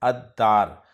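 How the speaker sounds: अद्दार said ad-dār, lam silent, d doubled; अद्दार: a held double d, no l heard; Arabic article demo. Shown as a demonstration. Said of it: "तो लाम नहीं पढ़ा जाएगा".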